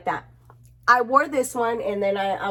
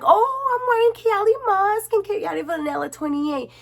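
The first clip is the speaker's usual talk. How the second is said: proud answer; 10 semitones higher than usual. Retold or imitated. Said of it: "And I'm like".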